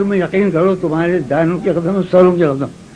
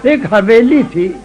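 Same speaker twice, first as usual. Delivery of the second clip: ghazal recitation. Acted. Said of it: "یہ غزل سنو".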